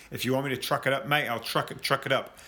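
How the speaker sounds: a mangled attempt at a New Zealand accent; lightly put-on Kiwi voice, quoting a player. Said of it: "Was that your, uh, Kiwi accent?".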